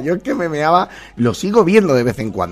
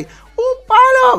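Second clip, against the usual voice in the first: very high, loud, slow squeal; hammed-up drawn-out cry; imitated catchphrase shout; 8 dB louder, much slower than usual. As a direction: stretch out the advert's yell.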